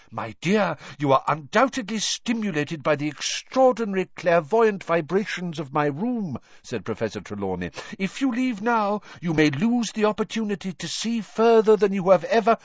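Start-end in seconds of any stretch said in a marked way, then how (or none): 0.1-6.4 eccentric seer voice. A narrator's reading. 8.0-12.6 eccentric seer voice. A narrator's reading.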